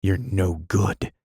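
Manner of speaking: slow, firm verdict; decisive. Acted. Anthony judging Dot, slow firm decisive tone. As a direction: lay it down slowly and firmly. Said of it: "he said decisively".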